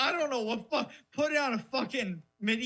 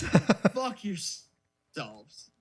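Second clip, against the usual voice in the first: drawn-out laughing curse; 4 dB louder, much slower than usual. Acted. Slow parting curse, laughing.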